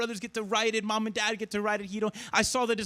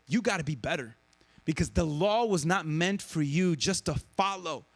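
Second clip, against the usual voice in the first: lower, earnest voice for the quote; quoting Jesus lower; 5 semitones lower than usual. Retold or imitated. Jesus correcting the rule followers, low and earnest. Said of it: "And Jesus says".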